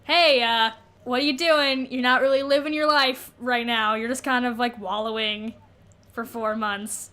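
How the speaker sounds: half-hearted dad lecture; mild dad mode. Retold or imitated. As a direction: nag lightly like a dad. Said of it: "in dad mode".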